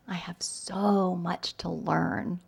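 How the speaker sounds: hushed, breathy-free unvoiced whisper of an inner voice. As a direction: whisper it like a private doubt. Quoting an inner voice.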